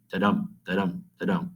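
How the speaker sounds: da-dum spoken as a soft heartbeat, weak beat then strong beat; heartbeat rhythm. Shown as a demonstration. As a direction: tap out da-dum like a heartbeat, second syllable stressed. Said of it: "He tries to mimic that heartbeat".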